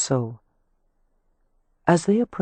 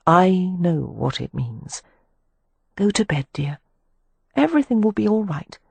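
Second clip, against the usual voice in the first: calm; 4 semitones higher than usual. A narrator's reading. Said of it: "surprised by how calm her own voice sounded".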